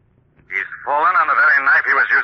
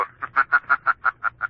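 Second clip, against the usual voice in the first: eerie mocking laugh; 4 dB quieter than usual. The Shadow taunts the villains, mocking laugh. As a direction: laugh from nowhere.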